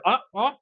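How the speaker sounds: a quick imitation of the dog's cry; imitating dog yelp. Owner imitating his dog's yelp while chewing a walnut, mild mock yelp. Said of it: "diye ses çıkarıyor".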